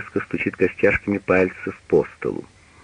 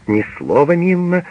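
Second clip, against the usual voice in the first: shouting; 9 semitones higher than usual. A narrator's reading. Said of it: "кричит фрау Пагель".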